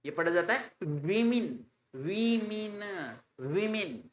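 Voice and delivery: "वीमेन" with a long ee, like wimin; correct pronunciation. Shown as a demonstration. Teacher correcting students' plural women. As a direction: stress the ee in "वीमेन". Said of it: "वुमेन नहीं".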